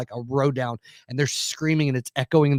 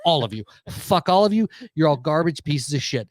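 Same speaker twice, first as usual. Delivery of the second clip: building into a furious tirade at the crowd; venting rage, voice climbing on the worst lines; imagined rant. Retold or imitated. Angry dad telling off the theater, rising furious rant. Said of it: "It's like".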